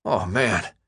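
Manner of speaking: mumbling through food; mouth full. Acted. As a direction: talk through a mouthful of sandwich. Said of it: "he mumbled with a full mouth".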